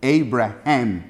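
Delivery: Abraham said slowly as "EY-bra-ham"; slow English Abraham ending in a clear "ham"; English pronunciation demo. Shown as a demonstration. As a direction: sound the h in the last syllable of Abraham, like jamón. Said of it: "Como jamón".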